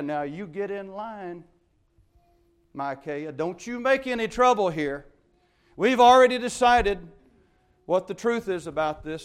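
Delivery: lightly voiced pushy guard; a touch of a threatening guard; bossy guard. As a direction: lean on him like a guard keeping order. Guard bullies Micaiah on the way.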